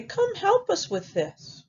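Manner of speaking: high piglet call for help; high-pitched storybook pigs; two little pigs. Acted. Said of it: "the other two pigs".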